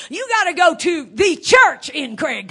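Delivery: shouting. Real, not acted. Preacher shouting his point.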